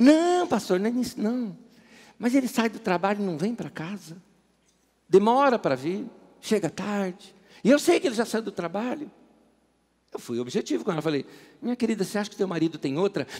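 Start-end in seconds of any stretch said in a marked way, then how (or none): 0.0-9.1 fake Brazilian nordestino accent. A pastor retells a woman's answer about her husband, imitating her Northeastern Brazilian accent. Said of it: "ela tinha um sotaque nordestino tão gostoso".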